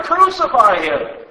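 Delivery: loud, slow yell falling at the end. Acted. Crowd insisting to Pilate, slow falling shout. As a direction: pound the words down slowly. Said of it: "kept shouting even louder".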